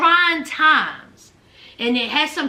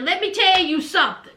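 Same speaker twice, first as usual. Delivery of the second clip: sassy warning; 3 semitones higher, faster than usual. Retold or imitated. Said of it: "Memphis said that".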